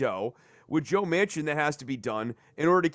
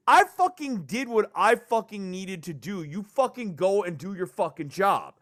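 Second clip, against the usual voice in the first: mock an exasperated demand, hitting each curse; worked-up quote of a fed-up voter; frustrated voter; 3 semitones higher than usual. Voicing frustrated Georgia voters.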